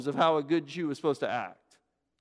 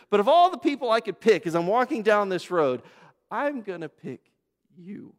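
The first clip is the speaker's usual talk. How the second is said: building to a hush; 5 semitones higher, 5 dB louder than usual. Acted. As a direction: swell and then whisper the choice. Preacher voices Jesus choosing.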